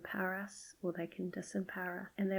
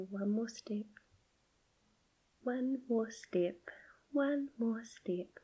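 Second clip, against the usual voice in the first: playful but easygoing; 4 semitones higher than usual. Retold or imitated. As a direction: cheer a tired child on, lightly and kindly. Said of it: "making it kind of playful but easygoing".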